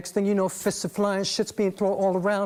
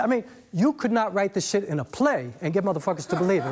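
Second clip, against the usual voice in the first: laughing. Real, not acted. Laughing at his own bad luck.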